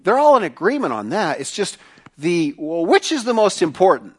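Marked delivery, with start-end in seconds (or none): 2.9-4.1 questioning emphasis. Real, not acted. Preacher poses the key question.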